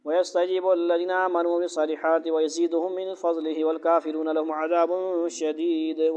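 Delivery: quick, flowing recitation of the Arabic; Quran recitation. Acted. Teacher recites the next verse to the class, flowing recitation. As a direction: run through the verse in recitation style.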